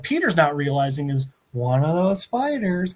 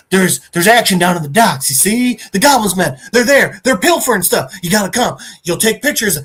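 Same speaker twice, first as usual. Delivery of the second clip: a touch of urgent, pressing excitement; urgent tip-off; 3 semitones higher, 5 dB louder than usual. Retold or imitated. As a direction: imitate an informant pushing a hot tip. Informant urgently tips off by phone.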